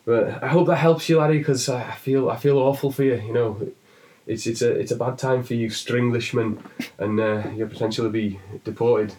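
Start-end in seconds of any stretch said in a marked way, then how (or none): 0.1-3.7 put-on Irish accent. Irishman keeps comforting, accent.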